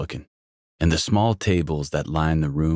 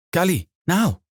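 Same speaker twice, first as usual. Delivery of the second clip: stern mother command; 14 semitones higher than usual. Acted. Mother orders son upstairs.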